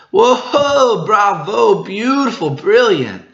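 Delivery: high, loud amazed cheers; crowd cheering. Acted. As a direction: gasp in awe at a giant cake. Crowd praising the cake.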